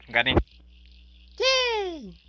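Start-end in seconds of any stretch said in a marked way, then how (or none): 1.4-2.2 victory cheer. Real, not acted. Celebra que ganó.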